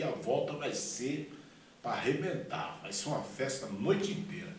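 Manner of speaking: emphatic, stretched-out key words; boasting party promise. Retold or imitated. Patient promises bar owner a party, expansive and eager. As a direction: talk up a huge party with gusto.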